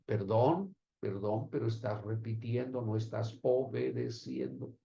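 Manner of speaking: low, soft, measured reproof; quiet correction. Real, not acted. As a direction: drop the voice to gently correct someone. Quiet aside correcting the reciter.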